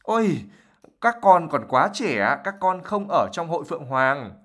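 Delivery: high-pitched fussing mum imitation; Fred imitating his mother in a shrill voice; mock mother voice. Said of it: "Fred nói trong một cái giọng mà nó rất là the thé".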